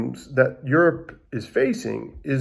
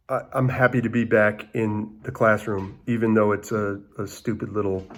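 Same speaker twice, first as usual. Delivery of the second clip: softer, lower, sincere sign-off; heartfelt farewell; 3 semitones lower, 4 dB quieter than usual. Real, not acted. Teacher to students kept home from class, heartfelt farewell. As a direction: tell them gently that they are missed.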